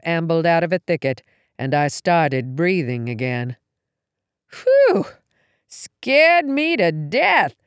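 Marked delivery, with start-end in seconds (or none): 4.5-7.5 a high relieved gasp, then slow; relieved whew. Acted. Darcy relieved the noise was only a deer, high gasp then slow. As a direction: breathe it out after the scare.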